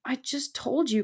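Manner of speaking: high little mouse voice; pleading. A narrator's reading. Mouse begging the porcupine to understand, high plea. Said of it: "Poppy pleaded".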